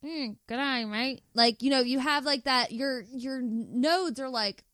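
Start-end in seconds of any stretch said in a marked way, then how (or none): 0.0-1.2 squinting Aussie greeting; Australian accent. Shown as a demonstration. Showing how squinting makes the accent, Australian. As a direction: say g'day through a squint, Australian style. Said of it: "So when they're like this".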